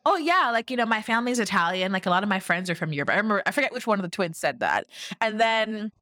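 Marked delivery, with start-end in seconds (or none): 0.1-3.1 mock airheaded guy. Mocking the twins on a reality show, airheaded bro voice. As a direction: play it like a clueless bro. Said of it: "they're like".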